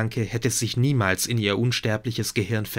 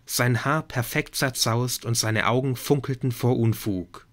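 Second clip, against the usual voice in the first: ordinary delivery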